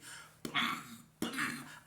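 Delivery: breathy mouth-made thuds; imitated punch noises. Storyteller mimics her punches landing on him, mouth sound effects.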